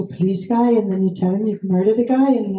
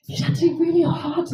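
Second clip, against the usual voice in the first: inner thought; 8 semitones higher than usual. Retold or imitated. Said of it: "and I was like".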